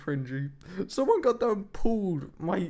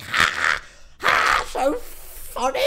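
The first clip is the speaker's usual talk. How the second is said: slow, breathy fake laugh voice; mocking the pranksters; 12 semitones lower, 4 dB louder, much slower than usual. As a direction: sneer it like the pranksters did. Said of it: "They were like".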